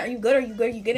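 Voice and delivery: quick repeated check-in, mildly worried; imitated concern. Boyfriend to her over the phone, imitated concern. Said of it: "he sounds so concerned over the phone".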